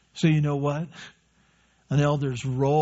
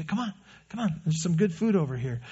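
gentle coaxing; 5 dB quieter, faster than usual. Pretend. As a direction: coax it home like a tender shepherd. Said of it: "you go closer and you say".

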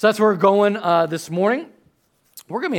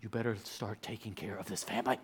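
Adrian; 8 semitones lower, 16 dB quieter than usual. Retold or imitated. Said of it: "And then Adrian goes".

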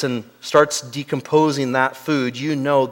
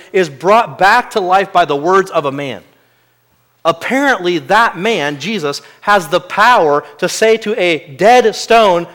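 ordinary talk, nothing marked

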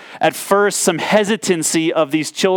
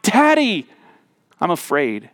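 put-on scared child. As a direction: imitate a frightened child calling at night. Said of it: "They cry out".

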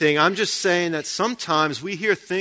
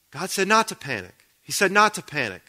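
higher-pitched, mildly panicky self-reminder; mock panicked voice; 4 semitones higher than usual. Preacher applying the shark-scene line to prayer, mock panicked. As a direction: echo the panicking movie character, lightly put on. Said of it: "in a panicked voice".

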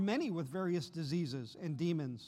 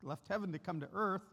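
gentle reassurance; 2 semitones higher than usual. Acted. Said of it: "I could imagine he would say".

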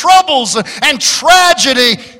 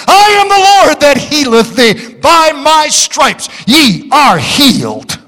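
God's healing declaration; 5 semitones higher than usual. Acted. Voicing God, healing promise.

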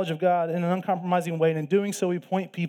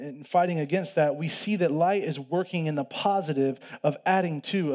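ordinary talk

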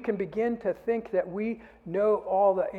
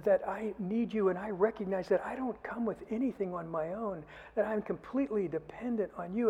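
softer, a plea to be held; hushed prayer; 6 dB quieter than usual. Pretend. Preacher voicing a believer praying to God, hushed and pleading. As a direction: quietly ask the Father for care.

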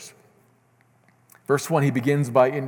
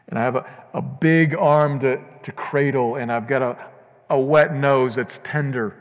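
voicing Christ, preached loud; 3 semitones higher, 4 dB louder than usual. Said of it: "That's Christ, says Paul".

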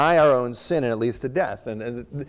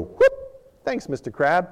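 playful; 4 semitones higher than usual. Retold or imitated. Playful catching crab aside.

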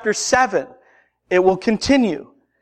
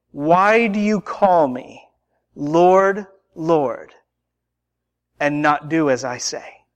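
slow question with long pauses; slow, solemn rebuke; 4 semitones lower, slower than usual. Acted. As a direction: space out each phrase, dropping low at the end. Jesus' rebuke, first take.

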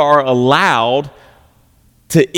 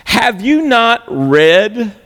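sarcastic; 5 semitones higher, much slower than usual. Acted. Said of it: "look at what Jesus says here sarcastically".

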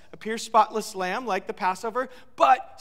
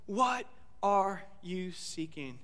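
very slow, softer and lower; soft searching question; 3 semitones lower, 7 dB quieter, much slower than usual. Acted. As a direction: ask it gently, almost inward. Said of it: "he says".

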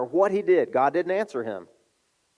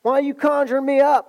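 rebuke; 10 semitones higher, 5 dB louder than usual. Acted. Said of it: "He rebukes him".

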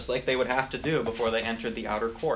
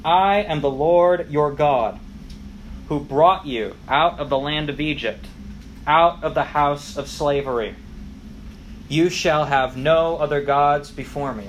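thunderous voice; 6 dB louder than usual. Acted. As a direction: proclaim it like thunder from a mountain. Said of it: "they hear his thunderous voice".

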